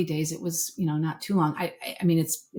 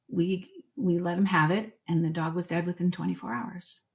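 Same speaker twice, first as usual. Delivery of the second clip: holding back tears; 4 dB quieter than usual. Real, not acted. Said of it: "I am gonna cry".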